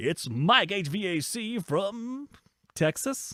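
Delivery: very slow, drawn-out big radio announcer voice. Introducing mike, who just arrived, in a radio announcer voice. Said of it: "I'll even get my radio announcer voice on there".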